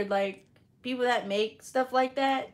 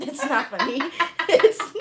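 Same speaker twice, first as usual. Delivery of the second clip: laughing; 3 semitones higher, 6 dB louder than usual. Real, not acted. Laughing while denying.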